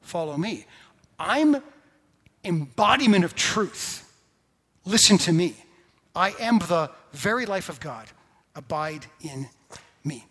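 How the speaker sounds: loud, ringing proclamation of Jesus' words; emphatic declaration. Retold or imitated. Preacher voicing Jesus to the congregation, loud and emphatic. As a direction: proclaim it with full force, every phrase hammered. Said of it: "Jesus said emphatically".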